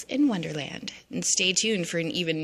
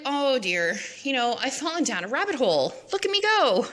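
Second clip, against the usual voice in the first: much higher, quick and delighted; high gleeful Alice; 7 semitones higher than usual. Retold or imitated. Alice falling down the hole, high and gleeful. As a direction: squeal it as she tumbles. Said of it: "she's like".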